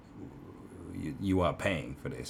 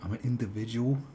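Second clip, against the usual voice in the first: mock meme line; 4 semitones higher than usual. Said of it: "It was like".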